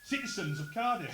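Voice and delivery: slow, loud, high rallying speech opener; grand address. Pretend. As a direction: open like a general addressing the city. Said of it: "the words squib and damp come to mind".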